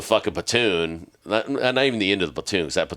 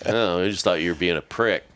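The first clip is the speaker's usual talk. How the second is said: laughing confession. Retold or imitated.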